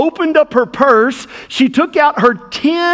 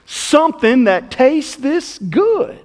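lightly voiced old lady, higher, sweetly unrepentant; sly old lady; 4 semitones higher than usual. Old lady answering the preacher, a mild higher sly voice. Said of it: "She said".

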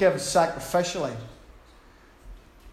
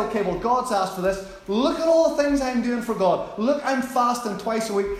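boastful Pharisee; 5 semitones higher than usual. Acted.

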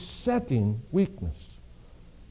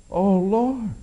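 louder pleading cry to God; 3 semitones higher, 4 dB louder than usual. Acted. Paul cries out a third time, pleading. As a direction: call out to the Lord with need. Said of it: "Paul cried out to God".

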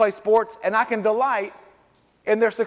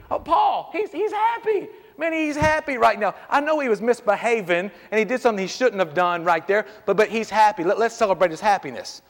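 indulgent dad. Retold or imitated. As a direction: brush it off like a doting father. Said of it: "and I said this".

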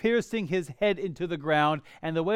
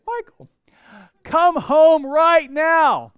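high sweet call, then slow and louder; beautiful angelic voice; 11 semitones higher, 11 dB louder, much slower than usual. Retold or imitated. Wife calling husband home, mock angelic sweetness. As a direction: sing the name sweetly, then draw the order out slowly. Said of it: "With a beautiful angelic voice".

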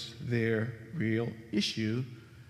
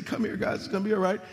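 higher, whispered coddling; mock coddling; 5 semitones higher, much faster than usual. Jesus imagined comforting the disciples, mock gentle. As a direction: pretend to soothe them like kids. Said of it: "He doesn't say".

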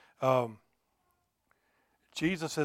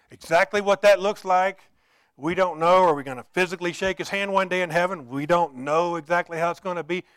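raised, insistent sermon delivery; impassioned preaching; 3 semitones higher, 9 dB louder than usual. Real, not acted. Preacher tells the congregation God is real today, impassioned preaching. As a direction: press each point home on a lifted pitch.

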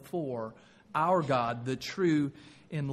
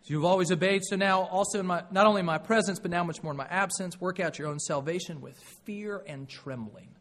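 scripture reading; 2 semitones higher, 4 dB louder than usual. Acted. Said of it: "Verse twelve".

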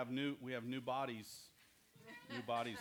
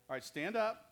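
called out high and louder; calling out; 7 semitones higher, 6 dB louder than usual. Real, not acted. Teacher calls the children to stand up, calling out loud.

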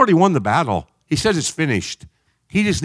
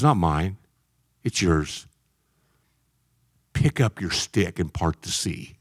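soft voice of God; 8 semitones lower, 6 dB quieter, slower than usual. Retold or imitated. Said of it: "Now he says".

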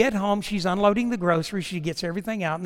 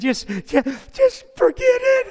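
high, loud, slow shout; imitated yell; 10 dB louder, slower than usual. Wife calling to her husband in the dumpster, shouting to forget it. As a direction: belt out an exasperated wife.

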